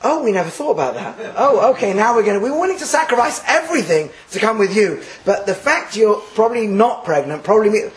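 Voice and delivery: laughing mock reply; a mock reply from the daughters-in-law with a laugh. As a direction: play the daughters-in-law, amused. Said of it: "you could just imagine them turning around going".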